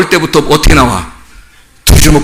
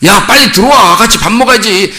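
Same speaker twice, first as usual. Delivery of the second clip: raised-pitch call to come home; parent calling; 5 semitones higher than usual. Acted. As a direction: imitate a parent summoning a child. Acting parent calling child home. (아이를 불러들이는 부모 흉내)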